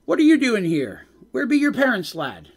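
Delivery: lightly put-on Scottish brogue, concerned; bad Scottish accent. Old dwarf asking the crying child, light Scottish accent. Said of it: "really bad Scottish accent".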